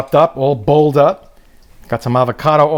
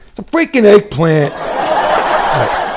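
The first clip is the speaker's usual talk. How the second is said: laughing; 3 semitones higher, much slower than usual. Real, not acted. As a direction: crack up as you say it. Laughing at own joke.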